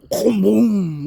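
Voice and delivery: punchy vocal boom for a big splash; imitated splash boom. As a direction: boom it out like something hitting the water.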